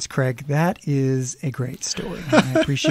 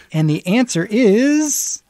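game show host; 5 semitones higher, 3 dB louder than usual. Pretend. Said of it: "That sounded like a seventies game show".

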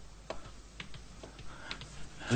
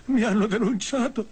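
rising panic; 6 semitones higher than usual. Acted. Panic, betrayed.

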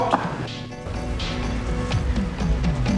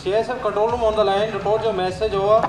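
crackly two-way radio transmission; walkie-talkie radio; 11 semitones higher, 4 dB quieter, much faster than usual. Real, not acted. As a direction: speak through a handheld radio. Control room answers on radio.

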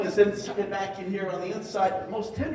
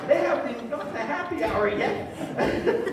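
higher and louder, laughing through it; laughing tease; 9 semitones higher, 5 dB louder than usual. Retold or imitated. Speaker teasing the overexcited scientist, laughing through the words. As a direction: rib him while cracking up.

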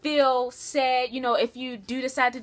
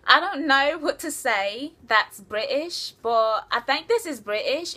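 British accent. Shown as a demonstration. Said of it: "Can you do a British accent?".

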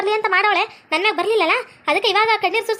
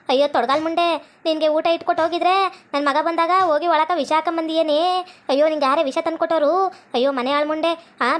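low-pitched accusing lament; wailing, cursing mother-in-law; 3 semitones lower than usual. Acted. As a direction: curse the daughter-in-law in outraged grief. Mother-in-law curses accused wife.

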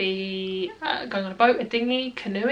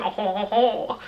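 mock French laugh, drawn out slowly; caricatured French chortle; French impression; much slower than usual. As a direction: do a hammy stereotypical French "oh". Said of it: "like, a French impression".

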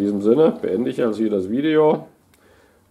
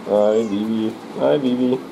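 normal talking voice

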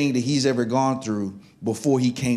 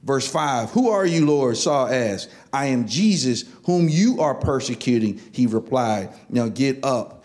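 scripture reading; 2 semitones higher than usual. Acted. Reads scripture aloud to congregation.

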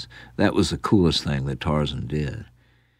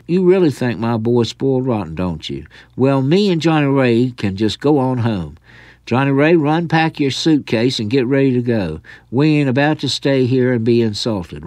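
offended huff; 5 semitones higher than usual. Acted. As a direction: huff off, deeply insulted. Offended grandmother leaving.

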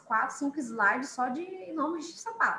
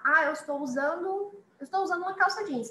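high, quick student voice; imitating a student; 5 semitones higher, 3 dB louder, faster than usual. Teacher voices a student describing jeans. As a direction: rattle it off like a pupil. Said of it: "student voice quoted".

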